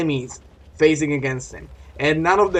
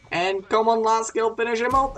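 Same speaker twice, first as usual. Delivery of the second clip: excited urging; 7 semitones higher than usual. Real, not acted. Urging teammate to finish kill.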